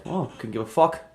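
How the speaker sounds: high, fast mock Caribbean accent. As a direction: toss it off in a put-on Caribbean accent. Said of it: "with that accent".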